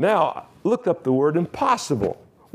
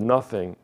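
"nothing" set apart after a pause and leaned on; stress on nothing; 4 semitones lower than usual. Shown as a demonstration. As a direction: underline "nothing" with the voice. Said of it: "underline that word".

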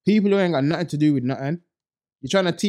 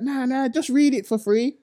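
mocking commenter; 9 semitones higher than usual. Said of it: "People are like".

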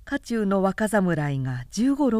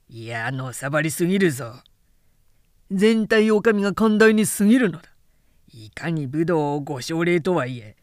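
put-on scornful young samurai; 4 semitones lower than usual. Young samurai ranting to friends about lowly foot soldiers, contemptuous.

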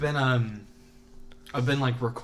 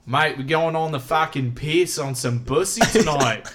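mock Australian accent; 3 semitones higher, 5 dB louder than usual. Mock Australian slang banter.

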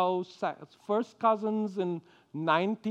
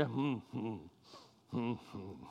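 low, soft, uncomfortable humming; dad's awkward hum; 9 semitones lower, 14 dB quieter than usual. Retold or imitated. Father answering his son's I love you, a low soft awkward hum. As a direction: hum low and softly, not knowing what to say. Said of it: "and he'll say".

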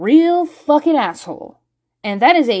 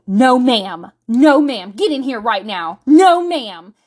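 stern mom order; 4 dB louder, slower than usual. Retold or imitated. Mother ordering daughter inside.

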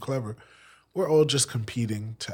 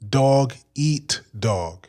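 slow, louder Brooklyn-style echo; mock echo; 3 semitones higher, 8 dB louder, much slower than usual. Friend echoing her Brooklyn accent slowly. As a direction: copy her accent back, stretched. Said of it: "I thought you said".

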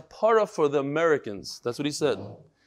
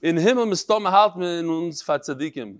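Litvish Yiddish. Retold or imitated. Rabbi reads a martyr's last words to his class, Litvish Yiddish. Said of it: "in the Litvish Yiddish".

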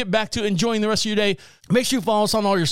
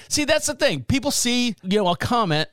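lightly put-on higher voice; 6 semitones higher than usual. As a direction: slip briefly into a mild character voice, higher. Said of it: "Let me switch back to me now".

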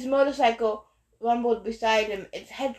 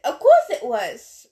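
laughing; 8 dB louder than usual. A narrator's reading. Ares answers, laugh heard.

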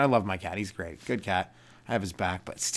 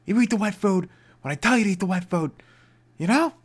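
louder, higher mock scolding; mock scolding the cat; 11 semitones higher, 7 dB louder than usual. Owner laying down rules to the cat, louder.

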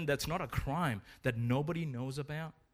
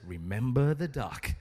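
mock-menacing reminder; veiled threat; 3 dB louder than usual. Sister turns to Johnny after volunteering him, mildly menacing. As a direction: drop it as a knowing little threat.

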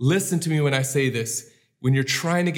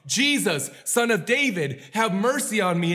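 crying out; 5 semitones higher than usual. Acted. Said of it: "screamed on the top of his lungs".

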